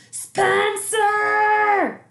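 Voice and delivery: high, loud call up the stairs; mother yelling up the stairs for her son. A narrator's reading. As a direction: yell his name as she climbs. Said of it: "she yelled on her way upstairs".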